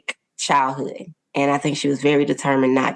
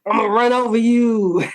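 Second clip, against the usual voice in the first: higher-pitched mock child threat; imitated bullying child; 7 semitones higher than usual. Mother imitating an imagined child who takes over, mock menace. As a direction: put on a playful little-tyrant voice. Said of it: "my child has turned into this".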